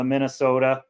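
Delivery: "Minnesota" with a long, round o; Minnesota accent. Retold or imitated. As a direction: stretch the o in "Minnesota", mock Minnesotan. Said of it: "most annoying American accent".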